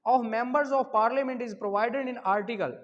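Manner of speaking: dictating the exam question at half speed; slow dictation to the class; slow question read. Shown as a demonstration. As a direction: read the question slowly and clearly. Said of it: "question number दस है जी".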